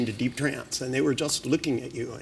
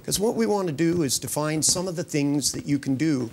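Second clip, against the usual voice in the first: hypnotic induction. Real, not acted. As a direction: lull them gently into trance. Hypnotist guiding trance induction.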